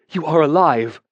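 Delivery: a lightly voiced grim mage; grim relief that she lives. A narrator's reading. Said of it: "he said grimly".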